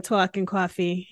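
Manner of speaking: dragged-out Northeast vowels; Northeast accent. Shown as a demonstration. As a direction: stretch the vowels like a Northeast native. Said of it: "everything gets dragged out".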